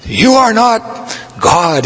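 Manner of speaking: first words jump high; retold anger. Prabhupada rebuking the hippie, sharp and high. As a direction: snap back at the boaster. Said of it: "Prabhupada became angry".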